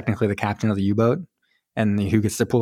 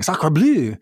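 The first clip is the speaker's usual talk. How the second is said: higher-pitched French Canadian outburst; mock exclamation; 6 semitones higher, 3 dB louder than usual. Trapper hearing news of the war, mock exclaiming. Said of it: "he keeps on exclaiming".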